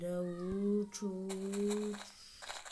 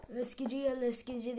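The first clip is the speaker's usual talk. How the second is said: street vendor call; 3 semitones higher, 3 dB louder, faster than usual. Retold or imitated. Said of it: "bağırmana gerek yok".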